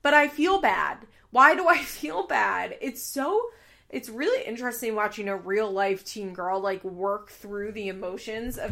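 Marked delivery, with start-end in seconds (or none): 0.0-2.8 mimicking Kayla. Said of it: "because she is like".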